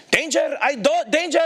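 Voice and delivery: high-pitched, slow, halting foreign voice; baffled foreign officer. Retold or imitated. Religious policeman who barely understands English, baffled and high-pitched. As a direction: imitate a confused officer with little English.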